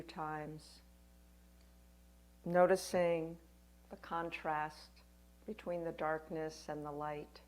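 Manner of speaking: gentle meditation guide with long pauses; guided meditation. Acted. Yoga teacher guiding listeners through a winter solstice practice, guided meditation. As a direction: lead them unhurriedly, phrase by phrase, leaving room to breathe.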